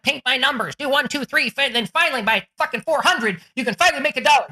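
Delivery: mock the step-by-step idea. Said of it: "It's not like".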